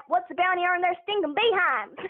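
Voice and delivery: cowboy line in a Texas accent. Shown as a demonstration. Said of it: "I can do Texas as well".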